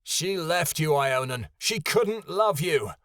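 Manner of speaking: high, raging outburst; screaming. Acted. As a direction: scream the hurtful truth. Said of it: "Kyoto screamed".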